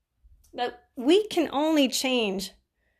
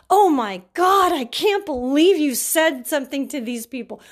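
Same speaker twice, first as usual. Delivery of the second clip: imitating her loud, upset cry; hammed-up dismay, drawn out at first; retold client losing it over the note; upset outburst; 2 semitones higher, 4 dB louder than usual. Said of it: "She was so upset".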